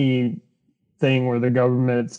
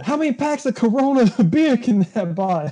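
mock Boondocks character; 9 semitones higher, 3 dB louder than usual. Continues the Boondocks-style bit.

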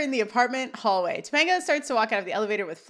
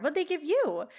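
higher-pitched, sincerely curious; earnest question; 6 semitones higher than usual. Retold or imitated. Topanga questioning Corey about company perks, earnest. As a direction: ask it in innocent earnest. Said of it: "She is being very earnest this whole time".

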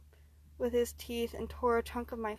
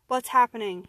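loud, gasping question; gasped; 2 semitones higher, 12 dB louder than usual. Acted. Hurt man to his attacker, loud pained gasp. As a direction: gasp it out loudly in pain. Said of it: "he gasped".

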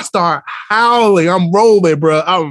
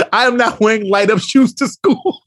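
higher, emphatic mock refusal; indignant fifth grader; 5 semitones higher than usual. Student rejects light-up shoes for school, imitated indignation. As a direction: refuse like an insulted child. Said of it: "she got mad attitude".

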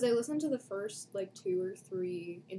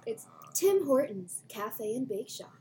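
customer service voice; 3 semitones higher, 5 dB louder, slower than usual. Acted. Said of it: "You got some good voices".

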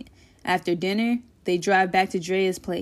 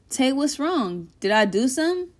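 somewhat nervous; 4 semitones higher than usual. Acted. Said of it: "in a somewhat nervous voice".

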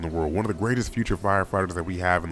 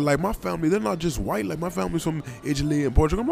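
high mock Australian woman's voice; terrible Australian accent; 8 semitones higher than usual. Man quoting Australian woman about her family, high bad Australian accent. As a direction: imitate an Australian woman badly, pitched up. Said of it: "very, very terrible Australian accents".

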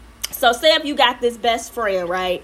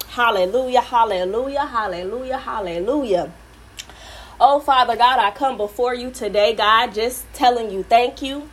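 earnest, intimate prayer voice, rising to fervent. Acted. Host praying over the podcast and its listeners, fervent prayer. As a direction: pray over the podcast from the heart.

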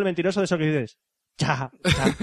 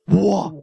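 Spanish buah; 5 dB louder than usual. Retold or imitated. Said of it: "aquí en España que decimos".

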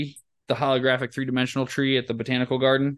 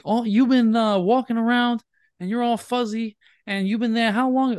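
mock incredulous host; 8 semitones higher than usual. Imitating radio host.

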